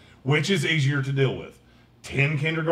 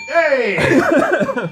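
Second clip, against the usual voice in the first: cheer; 12 semitones higher, 8 dB louder than usual. Real, not acted. Cheering at the end of politics.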